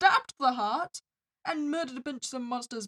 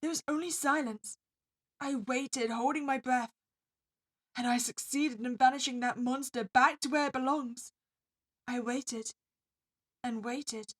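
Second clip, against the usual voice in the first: story narration. A narrator's reading.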